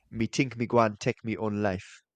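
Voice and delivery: light mock Jamaican patois reading; lightly put-on patois voice. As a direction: read it in a hint of patois. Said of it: "That was actually quite good".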